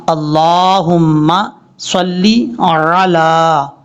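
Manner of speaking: अला slow, with a clear throaty ain at the start. Shown as a demonstration. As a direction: open अला with a clear ain, not a hamza. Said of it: "यहाँ पर आइन को clear करना". (अला में ऐन साफ़ पढ़ना)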